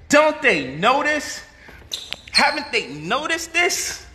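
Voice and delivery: high, slow, drawn-out falsetto lament; mock exasperated lament. Mocking his critics in a slow high falsetto. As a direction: whine it up high like a weary champion.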